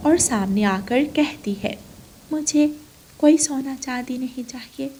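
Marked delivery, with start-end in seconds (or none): 2.3-4.9 lightly voiced little bird, modest request; humble bird heroine. Ranu asks the tree only for a small house, humble. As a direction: ask humbly in a slightly raised voice.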